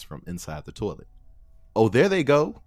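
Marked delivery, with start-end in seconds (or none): 1.7-2.6 much higher, louder delight; excited. Acted. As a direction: cheer as it kicks in. Character excited pills working.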